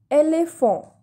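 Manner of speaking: Éléphant as "ay-lay-fon", nasal ending; French accent aigu. Shown as a demonstration. Teacher repeating an example word, Éléphant as "ay-lay-fon". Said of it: "we pronounce this letter as A".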